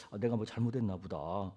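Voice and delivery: low, soft self-reproach; meek inner admission, acted; humbly contrite. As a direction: murmur it like someone bowing their head. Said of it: "얼른 머리 숙이고".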